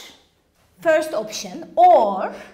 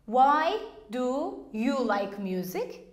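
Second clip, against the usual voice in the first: slow demo; 3 semitones lower, slower than usual. Shown as a demonstration. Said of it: "If I say".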